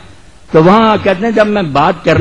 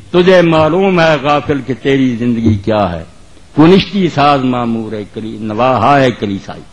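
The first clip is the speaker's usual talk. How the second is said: measured verse declamation, drawn-out syllables; poetry recitation; 3 semitones lower than usual. Acted. Preacher reciting Urdu verse to the congregation, measured declamation. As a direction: recite it line by line, letting vowels stretch.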